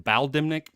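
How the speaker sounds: Baldimnik with a flat a, "BAL-dimnik"; alternative pronunciation. Shown as a demonstration. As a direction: say Baldimnik questioningly, first syllable like "pal". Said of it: "I pronounce it as".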